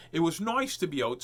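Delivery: lightly voiced show host; put-on voice. Shown as a demonstration. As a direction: still in the silly voice. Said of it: "so, I'll talk normal".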